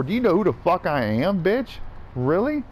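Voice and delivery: high-pitched, challenging demand; indignant confrontation. Retold or imitated. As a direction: re-enact an incredulous face-off. Acts out confronting man who followed him.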